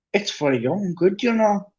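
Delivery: falsely kind, rising up high; sugary fake concern; mock saintly. Peeves sweetly pretending to care about the students. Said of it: "said Peeves in a saintly voice".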